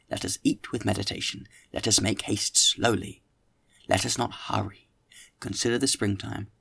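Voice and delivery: measured audiobook reading; literary narration with deliberate phrasing; story narration. A narrator's reading. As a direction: read the classic novel aloud, clearly paced. Reads the novel aloud.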